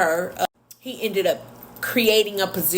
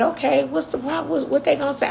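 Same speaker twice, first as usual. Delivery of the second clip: impatient demand; 8 semitones higher, much faster than usual. Retold or imitated. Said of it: "he was real militant".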